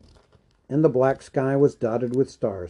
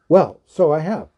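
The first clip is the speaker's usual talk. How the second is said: cried out; 3 semitones higher, 5 dB louder than usual. Acted. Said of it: "cried Bilbo".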